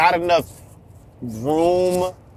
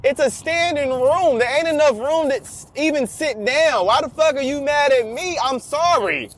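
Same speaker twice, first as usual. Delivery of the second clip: indignant inner thought; 8 semitones higher than usual. Retold or imitated. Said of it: "I'm sitting there thinking".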